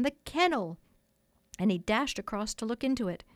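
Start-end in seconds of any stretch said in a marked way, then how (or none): 0.0-0.8 higher, swooping exclamation of discovery; lightly acted boyish amazement; excited cry. A narrator's reading. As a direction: exclaim it in surprise. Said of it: "cried John".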